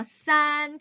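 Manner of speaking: 산 with a hard, tense s; 산 said as a sharp tensed ssan; 산 said with a firm tense initial; tense consonant. Shown as a demonstration. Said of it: "중국어는 된 소리예요".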